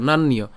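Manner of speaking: নান্যীয় linked as "naan-niyo"; joined as one. Shown as a demonstration. Teacher models it together, নান্যীয় as one word. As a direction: run নান্যীয় together with a doubled n. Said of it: "এটা আমরা একসাথে উচ্চারণ করব".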